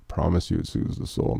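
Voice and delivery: softly whispered, unvoiced promise; hushed whispered promise. Real, not acted. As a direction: breathe it as a secret reassurance. Repeating a promise to listeners.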